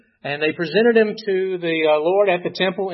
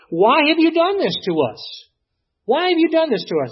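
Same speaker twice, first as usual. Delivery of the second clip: anguished mother's cry; 10 semitones higher, 5 dB louder than usual. Retold or imitated. Parents confront the lost boy.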